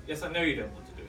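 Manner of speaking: quick, matter-of-fact brush-off; unmoved instructor. Acted. Instructor to reluctant jumper, quick and unmoved. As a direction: rattle off a lightly acted dismissal. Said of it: "she said".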